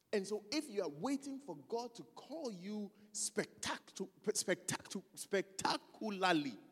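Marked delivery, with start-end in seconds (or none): 4.3-6.6 "spectacularly" broken up slowly, syllable by syllable; stumble, restart, then labour through "spectacularly"; struggling with pronunciation. Real, not acted. Preacher struggling with a word, "spectacularly" slowly sounded out. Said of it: "I'm struggling with this word".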